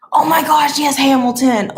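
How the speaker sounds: delighted, laughing; excited laugh. Real, not acted. Spots Hamilton, laughs.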